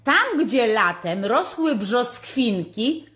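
slow, loud sing-song rhyme reading. Acted. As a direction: read the riddle like a children's poem. Reading the advent riddle rhyme.

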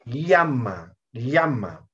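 "Llama" with a clearly scraped ly at the start; clear rasping ll. Shown as a demonstration. Teacher showing Huanca Quechua, clear ll. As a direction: press the tongue for the ll in "Llama". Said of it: "Raspando suena la ya".

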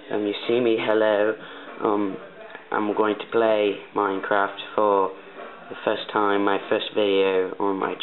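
practised, put-on British accent; Canadian trying on British English. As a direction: speak in an amateur British accent. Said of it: "I'm trying to practice my English accent".

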